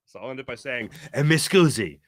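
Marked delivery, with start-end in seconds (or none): 1.1-2.0 lightly hammed-up Italian accent; playful put-on Italian accent; mock Italian accent. Host signing off his accent rant, mock Italian accent.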